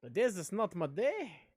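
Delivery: a half-hearted stab at an Irish accent that slips away; mock Irish lilt, barely there; failed Irish accent. Shown as a demonstration. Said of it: "that wasn't Irish".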